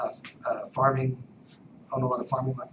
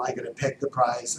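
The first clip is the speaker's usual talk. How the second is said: ordinary delivery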